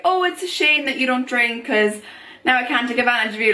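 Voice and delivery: lightly imitated flirty teasing; casual mock flirt, slightly lifted. Someone teasing her for not drinking, lightly flirty. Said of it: "flirty, like, casual tone".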